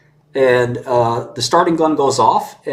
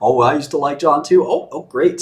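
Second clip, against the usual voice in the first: mock chummy politician; 4 semitones higher than usual. Politician fawning over the company's new hire, mock delight. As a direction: ham up a fake cheery backslapper.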